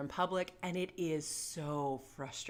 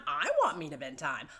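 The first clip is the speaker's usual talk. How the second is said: playful mock-excited. Shown as a demonstration. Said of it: "really get into it".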